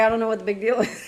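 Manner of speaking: breezy, unbothered tone. Imitating him shrugging off the panic: imitating him acting unbothered. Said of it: "he's gonna be like".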